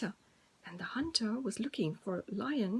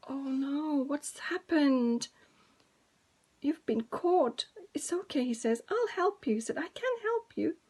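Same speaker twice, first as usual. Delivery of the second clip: little mouse; 4 semitones higher, 3 dB louder than usual. Acted. Little mouse helps lion.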